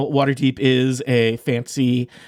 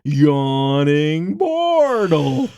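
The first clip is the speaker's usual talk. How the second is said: friendly tavern owner; 3 dB louder, much slower than usual. Acted. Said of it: "He's like".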